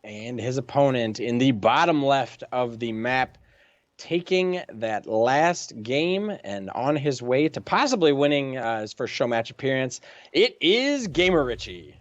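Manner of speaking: slow, drawn-out player intro; caster announcement. Acted. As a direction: announce the name like a ring introduction.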